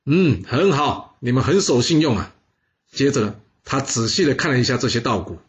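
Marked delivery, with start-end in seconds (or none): 0.0-2.3 slow, satisfied approval; pleased. Acted. King pleased with the returned grain, slow and content. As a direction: savour the praise slowly. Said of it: "他高兴地说啊".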